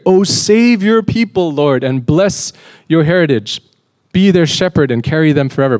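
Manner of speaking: a shepherd king begging God for his people; pleading prayer. Acted. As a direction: cry out "Oh, save your people" like a prayer. Voicing David's plea in prayer.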